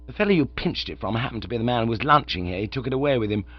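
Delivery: a hint of a grave butler; lightly voiced butler. Butler Jeeves replies.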